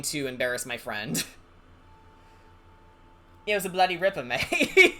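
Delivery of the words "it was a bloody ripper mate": mock Australian slang. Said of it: "Australian slang on the top of my head".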